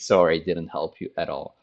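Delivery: low, dry mock apology; mock sorry. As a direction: shrug it off teasingly. Teacher mocking the losing side.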